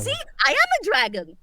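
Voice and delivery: proud, excited declaration; delighted. Acted. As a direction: show off the new form. Delighted dragon transformation.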